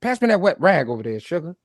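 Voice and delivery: lightly voiced flirty sugar line; lot lizard talk. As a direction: tease like a truck stop hustler. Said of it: "that's lot lizard talk".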